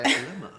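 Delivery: "Dilemma" said with a long die-, DIE-lemma; posh dilemma. Shown as a demonstration. Speaker showing upper class pronunciation, "Dilemma" as die-lemma. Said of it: "That's how we say it".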